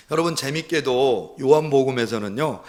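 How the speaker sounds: ordinary talk, nothing marked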